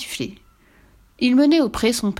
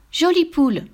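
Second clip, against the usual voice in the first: put-on high-pitched child's cry; child's shout; 10 semitones higher, 4 dB louder than usual. A narrator's reading. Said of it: "cria l'enfant". (cri d'enfant aigu)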